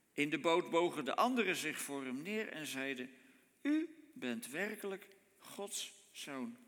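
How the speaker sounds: measured, solemn Bible reading; scripture reading. Acted. Preacher reading Matthew fourteen to the congregation, solemn. Reads Bible passage aloud.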